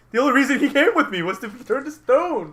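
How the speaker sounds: loud, high ranting villain; indignant high shout; villain's outburst. Acted. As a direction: rage at full volume, pitched high. Villain rages about the dead man.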